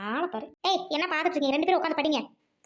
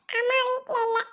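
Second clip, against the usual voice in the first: put-on high child voice, raised to be heard; little boy speaking up; 6 semitones higher than usual. Boy tells visitor mother is out, high piping voice. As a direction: pipe up like a small boy. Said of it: "கொஞ்சம் சத்தமா சொல்லு".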